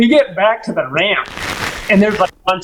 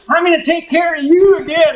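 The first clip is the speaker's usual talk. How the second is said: put-on generous drunk-ish client; 10 semitones higher than usual. Client tipping the guide after a good day, high grand voice. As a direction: hand out the reward grandly. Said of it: "he goes".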